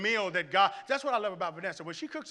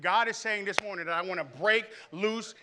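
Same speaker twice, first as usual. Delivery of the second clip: building louder toward destroy; rising preaching climax; 3 semitones higher, 6 dB louder than usual. Acted. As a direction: preach it with force.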